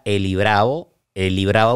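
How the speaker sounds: "Eli Bravo" joined as one word; run together. Shown as a demonstration. Guest explaining the confusion, "Eli Bravo" run together. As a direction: say "Eli Bravo" without any gap between names. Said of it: "una sola palabra".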